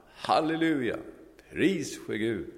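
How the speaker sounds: high, loud cry of Halleluja; joyful shout. Acted. Hippie on the bench shouting praise to God. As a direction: shout it out in joy. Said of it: "så ropade han".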